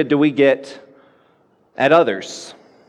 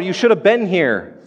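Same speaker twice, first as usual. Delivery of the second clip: calling Jesus out; 4 semitones higher than usual. Retold or imitated. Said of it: "she calls Jesus out".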